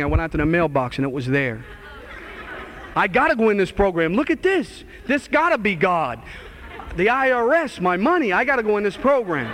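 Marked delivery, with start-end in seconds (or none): 3.0-9.5 overjoyed. Retold or imitated. IRS check arrives, overjoyed.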